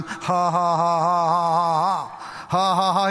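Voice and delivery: steady ha-ha-ha at the devil; mock the devil with a deliberate laugh; measured, spoken-out laughter; imitated defiant laugh. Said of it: "I'm laughing at you".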